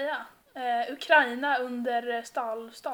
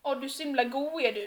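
playful put-on Gothenburg lilt; joky Gothenburg accent; 6 dB quieter than usual. Shown as a demonstration. Shows a friend how they joke, exaggerated Gothenburg accent. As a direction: lay on joking Gothenburg dialect. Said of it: "prata göteborgska som att när jag skämtar".

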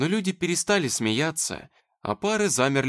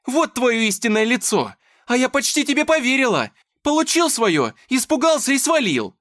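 very high, loud accusing shout; furious yelling; 11 semitones higher, 7 dB louder than usual. Acted. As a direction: tear into him. Dasha shouting insults.

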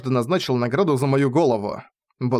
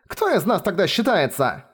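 higher, mildly agitated question; woman's cry; 6 semitones higher than usual. A narrator's reading. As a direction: ask with a touch of outcry. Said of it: "возопила другая женщина".

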